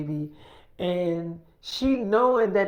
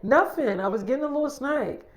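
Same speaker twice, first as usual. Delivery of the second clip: lightly mimicked higher-pitched excuse; put-on innocent protest, pitched up; mock defensive; 6 semitones higher than usual. Girl answers from downstairs, mildly defensive.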